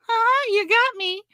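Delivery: high, airy mock giggle-reply; mock meek reply. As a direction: play it small and sheepish. Mocking women's meek reply.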